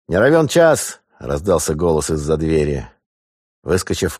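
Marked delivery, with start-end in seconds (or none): 0.1-1.0 shout. Acted. Urgent warning shout.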